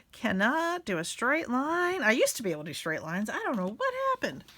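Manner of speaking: high, swooping mock lament; playful exasperation. Real, not acted. Crafter bemoaning her wobbly line of glue, playful exasperation.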